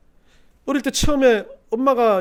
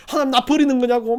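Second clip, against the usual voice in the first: raised, loud mock protest; imitated wailing; 6 semitones higher, 7 dB louder than usual. Believer asks if God abandons them, imitated wailing. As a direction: plead with God in mock reproach. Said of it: "막 울부짖으면서 뭐라고 그러니까".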